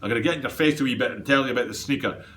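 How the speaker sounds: playful mock Scottish accent; hammed-up Scottish brogue, quick. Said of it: "he says in his Scottish accent".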